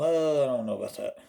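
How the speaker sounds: quick, doubtful brush-off; mock hesitant disapproval; doubtful reaction. Viewer unsure about a meme, mock doubt. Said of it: "Some people will go".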